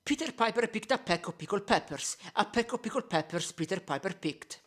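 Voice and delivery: tongue twister with softened plosives through a pop filter. Shown as a demonstration. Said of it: "Now one with a regular pop filter".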